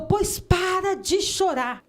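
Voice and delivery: high, commanding stop-crying order; with authority. Retold or imitated. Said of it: "com autoridade".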